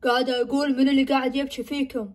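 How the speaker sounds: low, eerie mother's voice; a stranger speaking through mom. Acted. Possessed mother asking who is crying, low and eerie.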